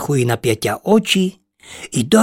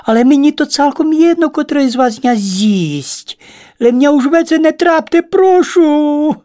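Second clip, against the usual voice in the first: high squeaking plea, voice pitched well up; squeaky pleading; 12 semitones higher, 4 dB louder than usual. Acted. Ladybird squeaks at the spiders, begging to end it. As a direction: squeak it out like a tiny begging creature. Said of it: "запіщало нещасне створіння".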